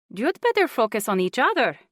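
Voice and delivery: insistent aunt, high and loud; older woman voice. A narrator's reading. Juanita voiced.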